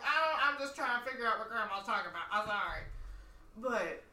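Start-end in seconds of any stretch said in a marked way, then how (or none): 0.0-2.8 flustered rush. Retold or imitated. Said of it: "And I'm like".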